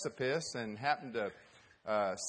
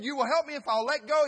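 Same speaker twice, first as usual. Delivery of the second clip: anxious; 10 semitones higher, 9 dB louder than usual. Acted. Hiker anxious disbelief.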